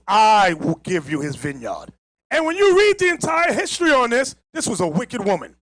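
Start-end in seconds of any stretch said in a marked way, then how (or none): 0.1-1.9 low, slow, scheming promise; lightly voiced sly wife, low and slow. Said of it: "She says".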